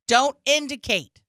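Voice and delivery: spaced-out, firm order; director yelling. Retold or imitated. Director corrects the actor cutting sandwiches, mock yelling. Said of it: "got yelled at by the director".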